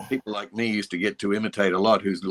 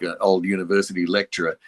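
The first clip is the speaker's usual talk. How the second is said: ordinary talk, nothing marked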